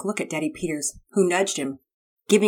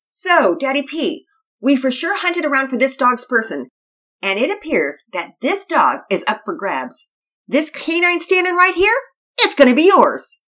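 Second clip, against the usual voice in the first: high, loud, excited surfer dude voice; a hyped-up teen skater boy pitching the dog; Todd the surfer kid; 8 semitones higher, 8 dB louder than usual. Acted.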